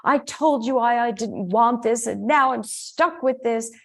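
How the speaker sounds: mock victim whine about the puppy; whiny victim. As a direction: act put-upon and stuck. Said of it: "That, that's victim".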